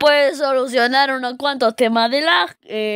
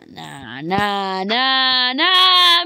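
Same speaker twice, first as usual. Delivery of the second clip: building nah; much slower than usual. Real, not acted. Building disbelief at game.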